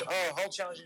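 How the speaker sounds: light mock French Canadian accent. French Canadian crowd member taking up the wrestler's challenge, French accent. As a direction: imitate a French Canadian speaking English. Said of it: "he, in a French accent".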